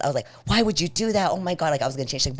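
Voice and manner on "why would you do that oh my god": higher-pitched, indignant retelling; retold exasperation. Mom confronting daughter over changed handle, retold exasperation. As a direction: protest the betrayal in a raised pitch. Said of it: "I was so pissed".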